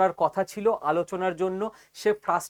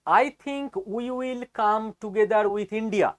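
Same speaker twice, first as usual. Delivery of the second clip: very slow, word by word; slowly; 5 semitones higher, much slower than usual. Shown as a demonstration. Reading the quote slowly to doubtful viewers, very slow. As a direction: read it out slowly so every word lands. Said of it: "আস্তে আস্তে বলছি".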